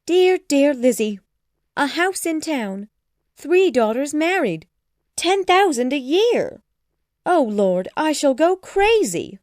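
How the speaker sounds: high, loud, gushing raptures; overexcited mother. A narrator's reading. Mother gushes over daughter's rich match, overexcited voice. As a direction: swoop up on each delighted exclamation. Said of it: "She was too excited to think clearly".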